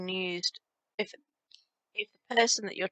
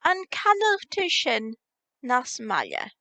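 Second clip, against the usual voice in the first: slow demo; 4 semitones higher than usual. Shown as a demonstration. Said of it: "So you need to say".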